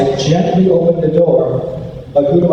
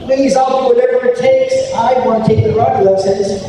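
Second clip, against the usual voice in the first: higher, pleading plea; begging; 5 semitones higher than usual. Retold or imitated. Boy begs his mom for karate lessons, pleading higher. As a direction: beg her to finally say yes.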